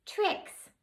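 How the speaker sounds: high small voice; tiny fairy giving her name. Acted.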